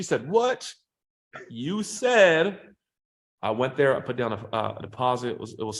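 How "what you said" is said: high, startled "what"; mock surprised wife. Wife asked about the Lamborghini deal, high surprised. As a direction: imitate the wife caught off guard.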